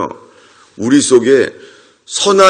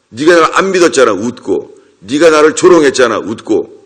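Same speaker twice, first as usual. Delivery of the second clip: accusing rebuke. Acted. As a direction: call out their doubt, pitch jumping up on each accusation. God rebuking the doubter, acted. (나무라듯 따지는 말투)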